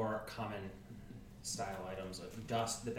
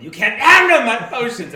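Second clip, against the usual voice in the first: put-on yelling old merchant, much higher; gruff proud merchant pitch; 13 semitones higher, 25 dB louder than usual. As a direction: bellow it at the customer, high and loud. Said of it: "old man is too busy harassing".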